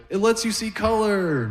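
very high-pitched granddaughter voice. Acted. Granddaughter explaining the glasses to granddad, high-pitched put-on voice. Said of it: "She's like".

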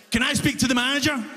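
quick, pushy demand; entitled customer. Retold or imitated. Angry customer to cashier, quick and pushy. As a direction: demand the manager like a Karen.

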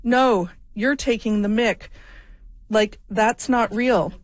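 put-on a mild, self-admittedly weak Australian accent, slow on the end. Host quoting the friends' disbelieving reply, mild Australian accent. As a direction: attempt an Australian accent, half-hearted. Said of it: "I really can't do an Australian accent".

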